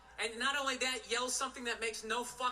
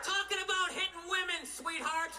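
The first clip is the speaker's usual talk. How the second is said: exasperated yelling; 4 semitones higher than usual. Real, not acted. Ranting at heckler.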